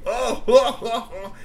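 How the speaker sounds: high cackling oh oh; troll laughter. A narrator's reading. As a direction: laugh it out gleefully.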